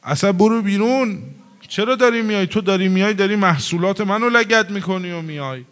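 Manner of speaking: hammed-up shouting at the imam to get out; retold shout. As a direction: bark it out at the unwelcome visitor. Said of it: "از دور داد زد".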